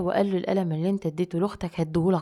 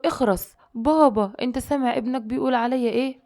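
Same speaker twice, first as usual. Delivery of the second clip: indignant protest; 5 semitones higher than usual. Retold or imitated. Daughter insulted by brother appeals to father, indignant.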